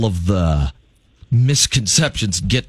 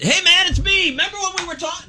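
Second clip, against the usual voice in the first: clingy client voice. Acted. Clingy tour client calling guide.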